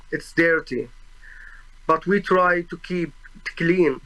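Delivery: usual speaking voice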